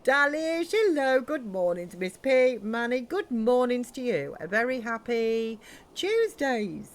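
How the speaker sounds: cheery Brummie hello to the chat; Brummie accent. Acted. Greeting viewers in a playful Brummie voice. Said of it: "I slip into Brummy".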